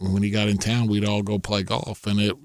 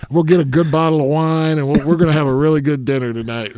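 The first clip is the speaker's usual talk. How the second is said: louder, eager and quick; gleeful; 4 semitones higher, 6 dB louder than usual. Retold or imitated. Promising Dana a celebration dinner, loud and gleeful. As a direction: sell the big dinner plan.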